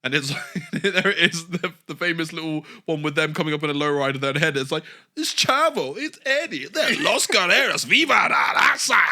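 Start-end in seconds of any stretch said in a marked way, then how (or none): 5.2-9.0 high, loud mock hype voice with a Latino accent; hammed-up Latino announcer. Podcaster mimics the wrestling video, hyped Latino accent. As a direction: belt out the gimmick intro in a put-on accent. Acting out the video package intro.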